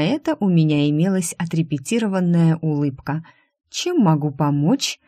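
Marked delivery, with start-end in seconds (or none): 3.7-5.0 slow, mildly courteous offer. Acted. Secretary receives her rival with a rehearsed smile, courteous. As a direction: politely offer help, unhurried. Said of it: "любезно поинтересовалась я".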